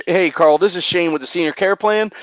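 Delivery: upbeat, friendly sales greeting; enthusiastic. Shown as a demonstration. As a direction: greet him like you're glad he answered. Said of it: "you need to be enthusiastic as hell".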